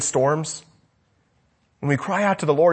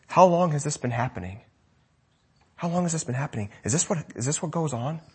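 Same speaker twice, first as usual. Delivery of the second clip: softly asking the grieving father, a little quieter; gentle Jesus; 6 dB quieter, faster than usual. Retold or imitated. Jesus kneeling, gently asking the father about his son. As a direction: lean in and ask gently.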